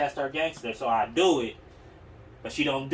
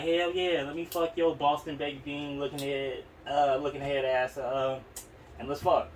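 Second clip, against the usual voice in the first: mock eager; 2 semitones higher than usual. Retold horny teen boast.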